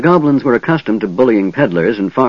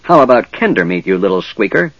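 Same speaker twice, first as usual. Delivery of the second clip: goblin rage. Acted. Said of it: "the goblin croaked and turned from Flint in a rage".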